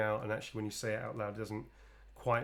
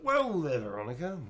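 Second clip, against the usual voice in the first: playful exclaim; 5 semitones higher, 4 dB louder than usual. Real, not acted. Repeating name playfully.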